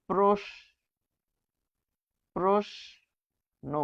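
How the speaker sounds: প্রশ্ন drawn out very slowly, with a dental s before n; slow demo word. Shown as a demonstration. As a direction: stretch প্রশ্ন so students hear the s. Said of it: "এটির উচ্চারণ হবে".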